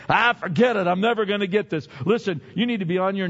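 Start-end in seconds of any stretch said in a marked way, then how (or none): 0.1-1.9 loud, fast frustrated giving up; mock giving up. Man tired of failing, mock giving up. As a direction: throw up your hands and quit. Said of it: "then you just say".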